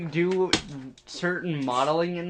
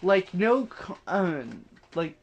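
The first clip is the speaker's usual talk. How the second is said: talking through hiccups; hiccuping between words. Real, not acted. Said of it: "We're taking out every one of your hiccups".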